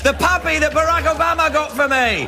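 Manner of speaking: hammed-up Australian patter; mock Australian accent. Host recapping the monologue for Australian viewers, mock Australian accent. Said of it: "We'll start the monologue recap in Australian".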